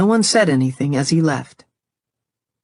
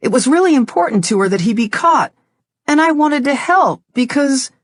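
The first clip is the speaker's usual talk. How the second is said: higher, hurried explaining; anxious daughter; 7 semitones higher than usual. Acted. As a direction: rush to justify yourself.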